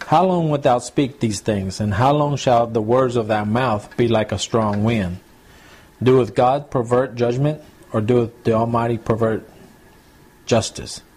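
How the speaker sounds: put-on slow, measured reading of old Bible words; slow scripture reading. Preacher reading Job aloud to the congregation, slow and solemn. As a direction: read the verse slowly, weighing each line.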